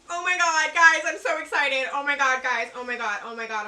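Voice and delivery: gushing, breathless excitement; squealing over a gift unboxing; fangirling squeal. Real, not acted. Beauty vlogger squealing to viewers over gifted makeup, gushing excitement. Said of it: "I'm fangirling a little bit too hard".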